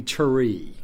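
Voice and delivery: TREE drawn into two syllables, "tuh-REE"; two-syllable Southern tree. Shown as a demonstration. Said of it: "if the word was tree, there would be two syllables in it".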